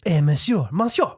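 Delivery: hammed-up French monsieur; French accent. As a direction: call out in a mock French accent. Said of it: "say it like a Frenchman".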